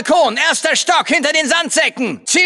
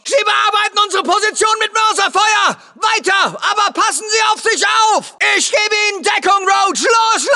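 urgent combat shout; 4 semitones higher than usual. Acted. Under mortar fire, running to landing zone.

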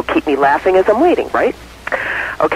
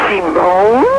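astonished question with a rising end; flabbergasted; 3 semitones higher than usual. Acted. Wife repeating her husband's revelation, flabbergasted. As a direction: echo it back in mock disbelief. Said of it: "The wife is flabbergasted".

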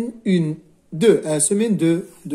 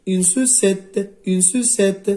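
slow model reading; slower than usual. Shown as a demonstration.

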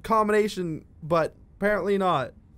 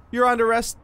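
mock cop; 6 semitones higher, 4 dB louder, faster than usual. Playing cop after siren.

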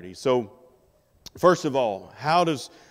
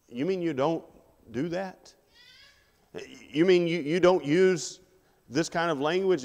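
higher-pitched incredulous questioning; mock disbelief; 5 semitones higher than usual. Worldly coworker questioning a Christian who avoids bad language, incredulous. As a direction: act mildly astonished, pitch lifted.

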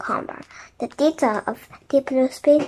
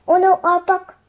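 raised, louder cry of dismay; higher, urgent storybook exclamation; 6 semitones higher, 5 dB louder than usual. A narrator's reading. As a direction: cry out as something drops away. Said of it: "cried Jack".

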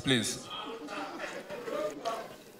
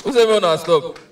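insistent demand; 4 dB louder than usual. Real, not acted. Comedian scolding crowd for stopping applause, insistent demand. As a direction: push the question out harder.

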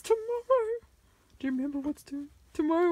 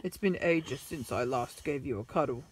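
tender pet-owner voice; 7 dB quieter than usual. Acted. Cuddling pet toy Ginger.

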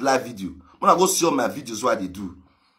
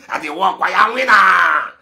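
a lightly voiced higher, louder mock complaint; mild mock lament of the rival; mocking whiner; 4 semitones higher, 6 dB louder than usual. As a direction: mimic a braggart whining. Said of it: "he say he dey work every day".

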